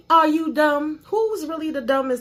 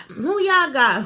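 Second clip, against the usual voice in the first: "Who y'all got?" stretched out slowly; slow teasing repeat; slow drawn-out question; 2 semitones higher, 3 dB louder, slower than usual. Pretend. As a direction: drag the question out.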